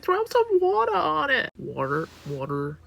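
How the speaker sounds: hammed-up bad Trump voice; Trump impression. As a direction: bluster it like a careless president. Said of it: "I can't do his accent".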